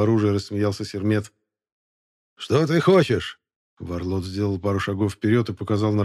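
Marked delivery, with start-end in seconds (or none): 2.4-3.4 shrill, piping voice, much higher; high squeaky voice. Acted. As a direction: squeak it out like a eunuch. Sermet's voice again.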